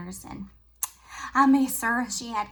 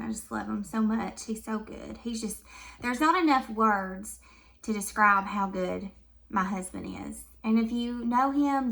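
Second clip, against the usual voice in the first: tender and soft; 3 dB quieter than usual. Real, not acted. Gushing about her husband.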